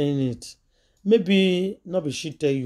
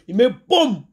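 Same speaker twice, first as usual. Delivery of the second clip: imitated boom; 3 semitones higher, 4 dB louder, slower than usual.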